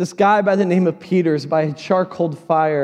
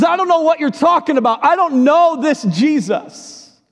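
high, louder frantic denial; panicked denial; 9 semitones higher, 4 dB louder than usual. Acted. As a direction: deny it in a panic. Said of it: "Peter says".

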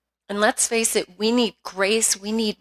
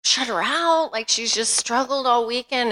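pleading prayer; 3 semitones higher than usual. Retold or imitated. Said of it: "I just started praying".

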